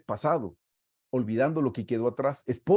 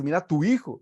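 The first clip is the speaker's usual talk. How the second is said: higher, louder scolding mother; mock angry mom; 5 semitones higher, 5 dB louder than usual. Imitating a mom annoyed at dad, mock scolding. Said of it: "como cuando la mamá se enoja".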